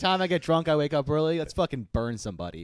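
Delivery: outraged villager. Acted. Outraged villager at witch trial.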